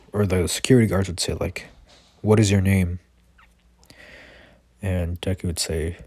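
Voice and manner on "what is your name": louder guard demanding answers; demanding question. Retold or imitated. Security guard demanding a stranger's name, louder. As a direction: call out the question firmly.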